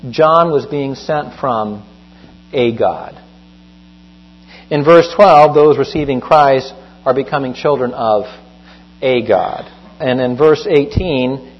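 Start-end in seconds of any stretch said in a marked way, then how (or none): 2.5-3.2 pause, then "a" as a full "ay", dropping lower on "God"; stress on "a". Retold or imitated. Applies the disputed translation to verse. 9.0-9.7 pause, then "a" as a full "ay", dropping lower on "God"; stress on "a". Retold or imitated. Applies the disputed translation to verse.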